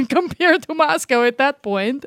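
slow, words carried on a laugh; laughing while talking. Real, not acted. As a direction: laugh through the comparison. Laughing about the sad apartment.

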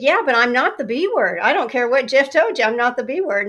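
defiant repeated denial; defiant insistence. Retold or imitated. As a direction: dig in and insist. Insisting to new boss.

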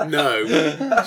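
talking through real laughter; reply while still cracking up; laughing. Real, not acted. Laughing at the acted shout.

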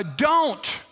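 high, emphatic warning; mild mock yell. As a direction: call it out as an urgent warning. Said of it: "he's yelling at us to say".

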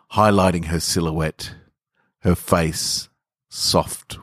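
calm, unhurried reading with long pauses; story narration. A narrator's reading. Host reads his short story.

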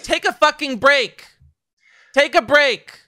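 high, loud insistence; forceful plea. Real, not acted. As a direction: demand they rest. Urging overworked creators loudly.

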